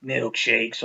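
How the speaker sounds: slow, lightly voiced drive-thru order; a hint of Big Smoke reading off his food order. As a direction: drawl the order out slowly. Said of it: "He's like".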